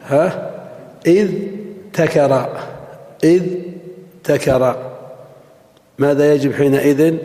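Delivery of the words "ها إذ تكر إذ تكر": تكر said as "takara" with a t after إذ; إذ تكر, the unchanged form; theoretical form. Shown as a demonstration. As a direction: split إذ تكر, with a t. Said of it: "كان القياس أن يقال".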